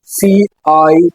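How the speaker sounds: letters spelled slowly one by one. Shown as a demonstration. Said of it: "spelling out circle". (अक्षर धीरे-धीरे बोलना)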